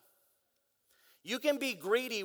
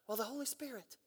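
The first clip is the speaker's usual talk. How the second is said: much softer Southern churchgoer imitation; mock Southern accent; 14 dB quieter, faster than usual. Churchgoer answering who controls the church, soft mock Southern accent. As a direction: answer softly with a put-on Southern twang. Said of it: "I make all the dumb people sound Southern".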